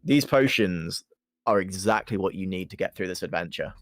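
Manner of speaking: low smooth sales flattery; a lightly voiced sweet-talking merchant; potion seller. Dribbler flatters low and soft.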